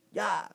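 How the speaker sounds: short mock martial-arts shout; a jokey karate "Ya!" like breaking a board; light hammed-up karate yell; playful karate cry. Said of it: "É uma brincadeira que eu faço".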